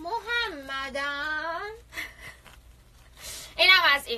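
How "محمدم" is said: thin, reedy, sexy, sultry put-on little voice. Mocking flirty antics, calling a name in a mock-sultry thin voice. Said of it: "با صدای سکسی نازک".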